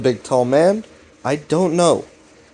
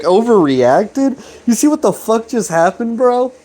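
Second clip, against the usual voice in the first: mock angry; 8 semitones higher than usual. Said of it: "get kind of understandably angry".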